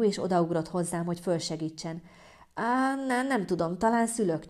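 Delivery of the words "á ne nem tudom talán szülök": higher, pained whimper. Acted. Woman fallen in labour answering her mother, whimpering. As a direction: whimper it through labour pain. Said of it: "nyöszörögtem a földön fetrengve".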